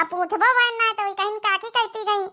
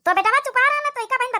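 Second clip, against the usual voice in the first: sharp hush; 8 semitones higher, 3 dB louder than usual. Acted. Quarrel over welcoming new bride.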